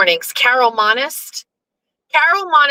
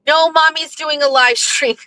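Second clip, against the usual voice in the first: sing-song higher teasing reply to her daughter; mock dismissive mom; 6 semitones higher than usual. Mom teasing her late child, higher sing-song dismissal. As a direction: mom teasing she's too busy streaming. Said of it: "I'm kidding".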